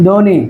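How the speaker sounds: ধ্বনি as "dho-ni", with no b sound; silent b-fola. Shown as a demonstration. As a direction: model ধ্বনি with the ব left silent. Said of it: "বফলা থাকবে না".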